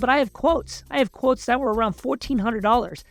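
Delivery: high-pitched, worked-up protest; retold haggling outburst, pitch held up throughout; indignant. Customer confronts technician over inflated quote, indignant.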